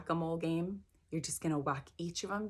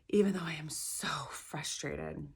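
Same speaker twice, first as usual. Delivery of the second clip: whisper. Shown as a demonstration. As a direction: hush it out like a private confession. Leads the tapping setup statement.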